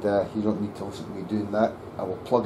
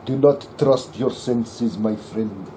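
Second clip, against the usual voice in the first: slow, louder, mock-wise sage voice; 4 dB louder, slower than usual. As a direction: play the old wise master, hammed-up. Mock wise advice to viewer.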